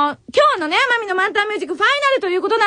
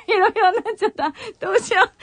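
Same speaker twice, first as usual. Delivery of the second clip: voice gone wobbly from crying; 4 semitones higher, faster than usual. Real, not acted. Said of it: "声がヘロヘロになっちゃった".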